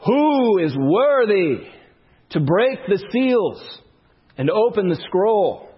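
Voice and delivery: slow, drawn-out proclamation; proclaiming angel. Retold or imitated. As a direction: call it out slowly like a herald angel. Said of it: "proclaims in a loud voice".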